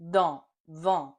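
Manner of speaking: dent and vent, loud nasal a; nasal en words. Shown as a demonstration. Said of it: "And that gives us en".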